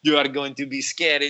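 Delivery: put-on character voice of a director from a ride recording. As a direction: imitate a theme-park director announcing a scare. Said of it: "the thing come up, and it was like".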